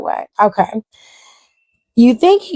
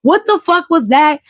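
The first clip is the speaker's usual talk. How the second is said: mock furious rant; 3 semitones higher than usual. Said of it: "Full Homelander".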